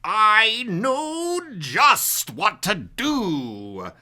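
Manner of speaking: slow, gloating Grinch; sly Grinch. Acted. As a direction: savour the wicked plan. Grinch gets his idea.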